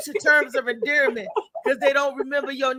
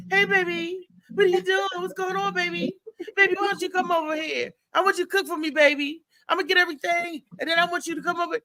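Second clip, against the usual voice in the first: light pimp sweet talk, higher and quicker at the end; imitating a pimp; 4 semitones higher, faster than usual. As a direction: coax her over like a lightly done pimp. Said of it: "He talked like a pimp".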